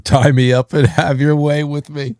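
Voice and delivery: a hint of Long Island diner waitress; lightly imitated waitress. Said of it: "a waitress in Long Island".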